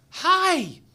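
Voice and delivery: loud, high hail across water; high-pitched distant call. Retold or imitated. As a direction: shout a big hello to someone far off. Imitates fishermen calling across water.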